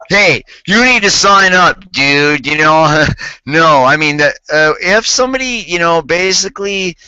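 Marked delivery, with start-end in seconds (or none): 0.1-2.5 mock pushy salesman. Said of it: "He didn't go like this".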